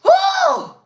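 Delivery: a high, loud whoop of delight; high woo. Real, not acted. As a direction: whoop with laughter. Laughing exclamation.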